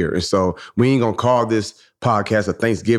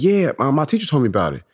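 higher-pitched, eager child retold; excited little girl; 5 semitones higher than usual. Daughter telling dad what her teacher taught, lightly excited. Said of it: "So she was excited".

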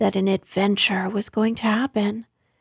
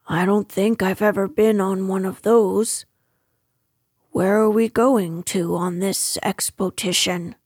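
lightly voiced storybook bear, puzzled; a hint of a simple, curious bear; Pooh, innocently curious; 2 semitones lower than usual.

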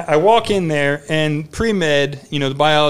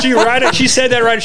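excited emphasis; 7 semitones higher, 5 dB louder than usual. Real, not acted. Laughing emphasis on confident director.

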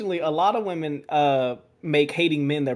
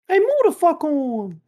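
yelling; 12 semitones higher, 6 dB louder, slower than usual. Real, not acted. Game chatter yelled.

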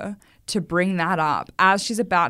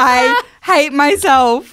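mock self-loathing; 8 semitones higher, 12 dB louder, much slower than usual. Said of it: "and I was like".

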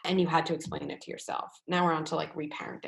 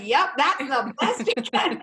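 slow, laughing, louder agreement; amused knowing nod put into words; laughing resignation; 7 semitones higher, 6 dB louder, slower than usual. Retold or imitated. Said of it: "you're nodding like".

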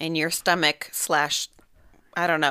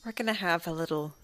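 hushed whisper; 7 dB quieter than usual. Acted. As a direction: whisper it like a secret. Host whispers intro.

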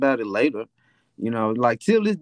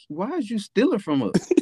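higher, laughing mock mom; 9 semitones higher than usual. Mom laughs at her son stealing, higher laughing question. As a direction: ask it through a laugh.

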